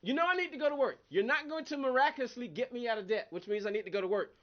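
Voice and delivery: retelling a morning complaint to God about having to work; mock angry prayer. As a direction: vent at God, half joking. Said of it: "I was mad this morning".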